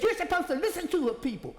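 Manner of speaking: high, loud indignant yell; retold screaming. Teen scolding the council for not listening, high loud yell. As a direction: yell it at them, still furious. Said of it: "She was screaming".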